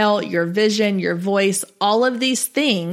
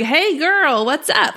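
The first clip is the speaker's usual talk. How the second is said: put-on bubbly girlfriend greeting; 5 semitones higher, slower than usual. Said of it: "be like".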